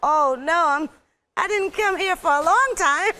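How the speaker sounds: high, squeaky mock panic; panicked self. Actor recalls stranded in lockdown, high mock panic. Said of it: "I'm like".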